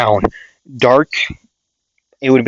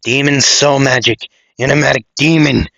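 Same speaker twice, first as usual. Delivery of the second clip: muffled voice; 4 semitones higher than usual. Acted. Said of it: "a muffled voice say".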